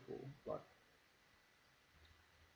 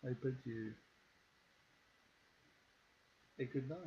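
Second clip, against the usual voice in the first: soft, otherworldly fey lady; eerie woman voice; 6 dB quieter than usual. Acted. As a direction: speak softly and eerily. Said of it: "That wasn't eerie as fuck".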